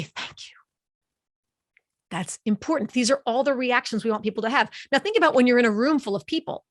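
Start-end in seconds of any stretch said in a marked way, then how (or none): 0.0-0.6 whispered, breathy thank-you; refreshed relief. Acted. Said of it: "It's refreshing. Makes you say".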